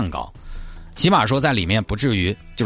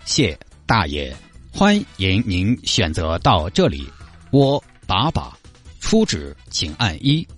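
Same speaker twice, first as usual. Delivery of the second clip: slow machine voice; slower than usual. Retold or imitated. Imitating face-recognition paper machine.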